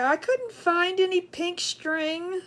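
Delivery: slow, whimpering mock sob; mock crying. Streamer mock-weeps about missing pink string. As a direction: pretend to cry over it.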